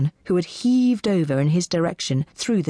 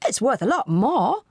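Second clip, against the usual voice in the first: higher-pitched, courage slipping away; embarrassed auctioneer; 7 semitones higher than usual. A narrator's reading. Auctioneer to a heckling audience, embarrassed. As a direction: defend the price with fading courage. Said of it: "his courage fading as his embarrassment bloomed".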